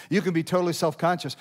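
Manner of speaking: ordinary delivery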